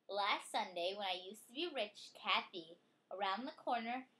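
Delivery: lively storybook reading voice; reading to a child. Acted. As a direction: read it out brightly for a child. Reading picture book aloud.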